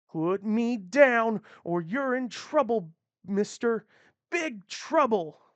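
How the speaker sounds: put-on a small girl trying to sound tough; defiant little girl. Captured girl warning the man holding her, high and defiant. Kidnapped girl threatens captor.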